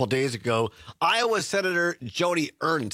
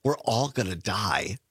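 lower, unbothered retelling; quoted offhand, dropping lower at the end; matter-of-fact; 4 semitones lower than usual. Retold or imitated. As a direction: mimic a matter-of-fact shrug of a reply. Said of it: "very matter-of-factly".

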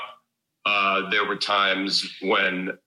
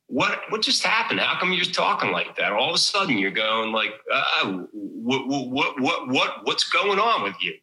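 lightly voiced incredulous friends, pitched up; teasing a friend who slipped into an accent, mildly raised; 5 semitones higher than usual. Friends mocking his sudden Philly accent, a light incredulous voice. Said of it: "my friends will tell me".

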